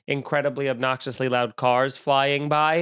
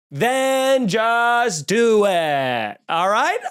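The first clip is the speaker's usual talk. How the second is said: exasperated, slow; 5 semitones higher, 3 dB louder, much slower than usual. Real, not acted.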